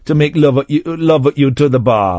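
mock Jamaican accent. Presenter teasing co-host about a holiday romance, mock Jamaican accent. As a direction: slip into a put-on Jamaican accent. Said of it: "a white man doing a Jamaican".

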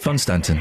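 "Fun Stanton" said with F for the H, low and deadpan; jokey place name. Shown as a demonstration. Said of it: "as we like to call it".

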